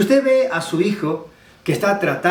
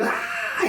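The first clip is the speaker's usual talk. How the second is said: mock child's scream; 7 dB quieter than usual. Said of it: "Y grita".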